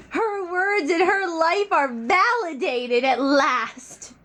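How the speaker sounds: slow, lofty orator proclaiming a triumph; hammed-up solemn address about mom's vindication; a lightly done Martin Luther King style oration; mock grand speech. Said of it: "Do you feel like Martin Luther King Junior?".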